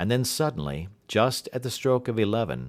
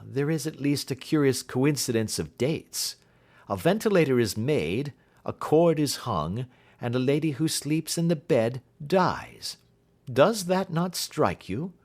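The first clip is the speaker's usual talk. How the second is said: higher detective voice, slowing to make the point; 7 semitones higher than usual. Acted. Detective lays out clues.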